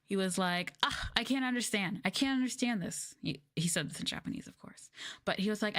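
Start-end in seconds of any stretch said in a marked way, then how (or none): 0.8-3.2 whining student, pitched up; whiny student complaint.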